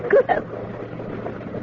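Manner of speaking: breathless, slow, hushed gasp of fright; a stunned, airless whisper; horrified gasp. Acted. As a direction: barely get it out, aghast. Shocked old lady at danger.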